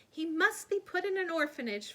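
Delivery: worried aunt fussing aloud; fretting. A narrator's reading. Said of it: "fretted Aunt Figgy".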